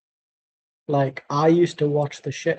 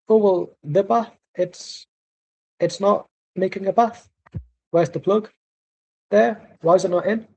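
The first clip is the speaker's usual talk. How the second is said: higher-pitched, badly faked Italian accent; awful Italian accent; 4 semitones higher than usual. Mocking the man who can't run a bath, awful Italian accent. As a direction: do a hammed-up, bad Italian accent. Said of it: "That's my awful Italian accent".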